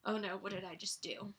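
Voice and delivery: hushed, panicked inner voice; a woman terrified after being healed; scared. Retold or imitated. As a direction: sound suddenly frightened of what you did. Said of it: "she's probably terrified".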